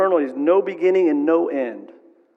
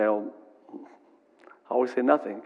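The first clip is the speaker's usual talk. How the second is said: meek reply; 4 semitones lower, 6 dB quieter, slower than usual. Retold or imitated. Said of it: "I'll say".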